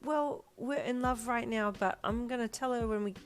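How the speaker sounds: put-on lifted, childlike reasoning; little boy. A narrator's reading. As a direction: explain the plan like a small boy. Little boy explaining his plan.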